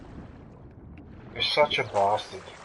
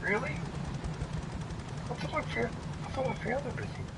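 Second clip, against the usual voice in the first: incredulous; 11 semitones higher, 8 dB quieter than usual. Real, not acted. Gamer disbelieving missing boat.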